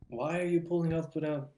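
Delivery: baffled outburst, tripping over the question; astonished retelling. Retold or imitated. Acted astonished reaction to truck.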